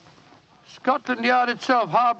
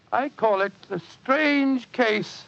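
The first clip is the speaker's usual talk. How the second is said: ominous title reveal. Acted. Doctor teases next week's tale, ominous and slow. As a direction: make the title sound sinister.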